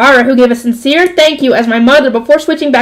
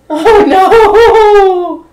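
laughing groan; 6 semitones higher than usual. Real, not acted. Laugh after dismay.

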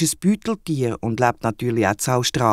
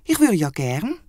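higher wombat voice, a touch sorry; regretful wombat; 5 semitones higher than usual. Acted. The wombat answers Henry's swim offer, higher and regretful. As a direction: say it like a shy little animal. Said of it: "sagt darauf aber der Wombat".

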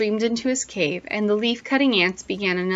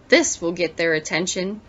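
growling; 3 semitones lower than usual. Acted. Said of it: "he growled".

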